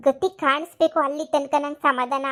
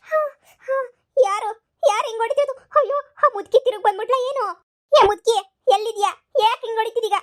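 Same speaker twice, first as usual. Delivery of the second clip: frightened wailing; 4 semitones higher than usual. Acted. Grandmother beaten by unseen ghost.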